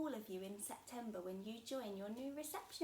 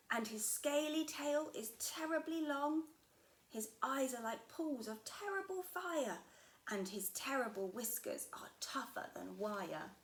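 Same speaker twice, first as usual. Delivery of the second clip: louder, ominous storytelling monster father; spooky Gruffalo dad; 3 semitones higher, 5 dB louder than usual. Acted. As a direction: scare the little one with a tale. Gruffalo describes the mouse.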